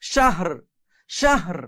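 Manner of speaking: শাহর with the closing R clearly pronounced; final R sounded. Shown as a demonstration. Teacher repeats the stopped reading for learners, final R sounded. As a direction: end শাহর on an audible R, no vowel after. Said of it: "এভাবে উচ্চারণ করতে হবে".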